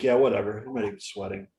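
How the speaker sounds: unfazed, casual shrug in the voice; cool indifference, imitated; ice cold. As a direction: toss it off like nothing's happening. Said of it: "he was ice cold the whole time".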